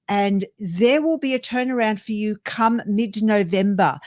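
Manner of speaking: a tough-love wake-up call from the spirit guides; spirit guides' firm message. Retold or imitated. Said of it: "your spirit guides are saying to you".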